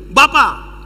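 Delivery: lightly voiced child's cry; child calling father. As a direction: call out to your father. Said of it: "ini anak bilang begini".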